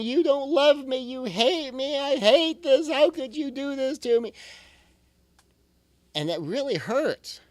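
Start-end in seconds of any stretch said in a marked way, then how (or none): 0.0-4.3 put-on higher, pleading child voice; a daughter protesting to her mother, pleading; child's protest. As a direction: play the hurt kid accusing mom. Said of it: "It's her child saying".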